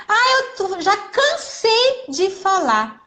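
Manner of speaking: imitating a tired parent sighing that they've said it all; mock exasperated parent. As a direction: play the fed-up parent, stretching it out. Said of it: "a gente acha que".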